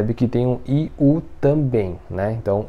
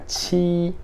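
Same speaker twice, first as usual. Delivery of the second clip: "ti" as an aspirated "tchi", held level; first tone; 6 semitones higher, 3 dB quieter than usual. Shown as a demonstration. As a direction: hold "ti" high and even, with a puff. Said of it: "primeiro tom".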